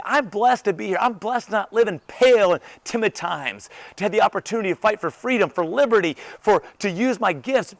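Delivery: upbeat, emphatic declaration; enthusiastic. Acted. Greeting the day as someone who chooses enthusiasm, enthusiastic. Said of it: "Do you choose to be enthusiastic?".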